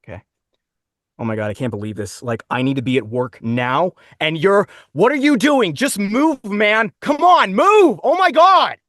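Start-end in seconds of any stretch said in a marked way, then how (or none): 1.2-8.8 American driver's frustration building to high, loud shouting; annoyed American commuter. Acted. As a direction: rant at traffic in a General American accent, ending in a yell. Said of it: "a general American man annoyed that he's stuck in traffic".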